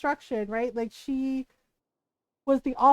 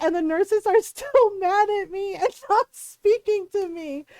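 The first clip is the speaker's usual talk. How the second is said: laughing through a quote; 3 semitones higher than usual. Retold or imitated. Guy retelling his gummy disaster.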